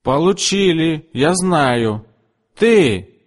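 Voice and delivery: high, pushy insistence; imperious customer. A narrator's reading. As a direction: jab at the next girl. Mrs Rainwater insists. (высокий, настойчивый голос капризной клиентки)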